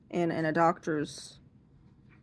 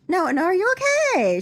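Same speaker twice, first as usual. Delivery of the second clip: high, loud worried question; mock-worried salon lady; concerned beautician; 12 semitones higher, 6 dB louder, faster than usual. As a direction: ask it like an anxious beautician.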